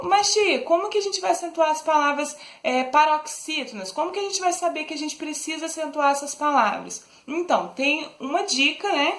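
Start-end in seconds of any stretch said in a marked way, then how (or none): 0.0-7.0 put-on higher-pitched curious child asking teacher; pupil asking. Teacher voicing a pupil who asks her how to accent words, higher and curious. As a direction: play a puzzled pupil raising a hand.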